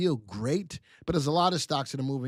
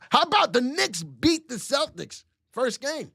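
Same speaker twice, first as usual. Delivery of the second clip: higher, thrilled exclamation; excited aside; 10 semitones higher, 4 dB louder than usual. Real, not acted. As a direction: gush about the upset win. Excited aside about basketball win.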